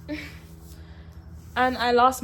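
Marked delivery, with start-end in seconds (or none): 0.1-0.2 shocked. Retold or imitated. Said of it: "I was like".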